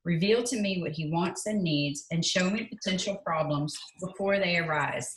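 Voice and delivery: earnest, steady prayer read aloud; measured, reverent reading from a prayer book. Acted.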